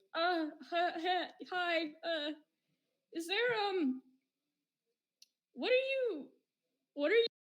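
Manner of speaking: high, nervous, flustered stammer. Voicing Bushroot meeting a stranger: nervous stammering. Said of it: "Bushroot's just like".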